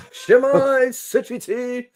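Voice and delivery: put-on North Wales accent, high and bright. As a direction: greet in a North Walian accent. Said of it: "Very North Walian accent there".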